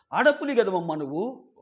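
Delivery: mock-chiding pep talk, lightly acted; imitated consoling. Housemate cheering up crying Sonia, lightly imitated consoling. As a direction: coax someone out of crying, in a retold voice. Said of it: "ఓదార్చే ప్రయత్నం చేస్తాడు".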